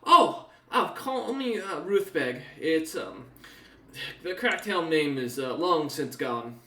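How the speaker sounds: lightly voiced laughing noblewoman; NPC woman. Noblewoman correcting her name, laughing lightly. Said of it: "She looks at you and goes".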